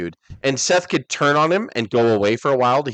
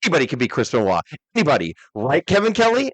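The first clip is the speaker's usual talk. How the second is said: imitating The Rock; 3 semitones higher than usual. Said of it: "And he's like".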